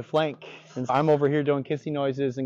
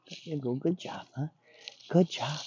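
gentle praise; 2 semitones higher, 5 dB quieter than usual. Real, not acted. Trainer praising dog.

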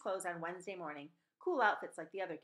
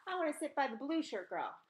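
demanding; 6 semitones higher than usual. Acted. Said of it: "she demanded".

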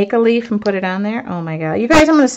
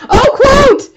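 high, loud laughing yelp of realisation; laughing surprise; 6 dB louder than usual. Real, not acted. Crafter suddenly remembers the missing quote, laughing surprise. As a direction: burst out laughing as it hits you.

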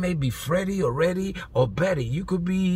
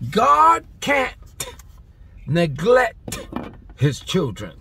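shouted emphasis; 5 semitones higher, 4 dB louder, much slower than usual. Shown as a demonstration. Preacher repeating the line louder for the congregation, shouting. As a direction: blast God can't, then fall away on his children. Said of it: "You wanna know why I speak like that?".

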